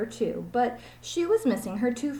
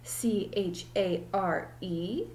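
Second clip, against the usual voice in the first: silly teacher; slower than usual. Acted. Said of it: "said Missus Jewell's".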